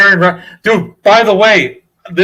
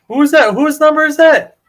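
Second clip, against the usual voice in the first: retold puzzled question; 9 semitones higher than usual. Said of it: "they're like".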